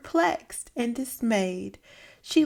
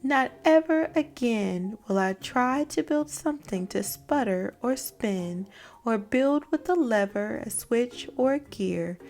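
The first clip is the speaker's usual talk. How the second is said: dismayed vow. Acted. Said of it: "who thought".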